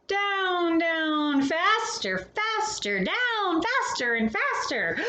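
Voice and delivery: thrilled skier racing downhill. A narrator's reading. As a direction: ride the speed up the hill of excitement. Skiing downhill faster in story.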